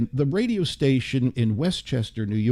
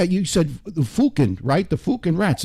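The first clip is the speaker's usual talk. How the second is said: British accent; 3 semitones higher than usual. Shown as a demonstration. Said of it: "That's it, British".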